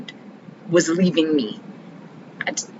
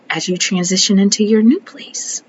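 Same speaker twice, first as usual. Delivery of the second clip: breathy whispered question; 4 dB louder than usual. Real, not acted. Coaching herself toward calm, whispered. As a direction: drop to a whisper on the calm option.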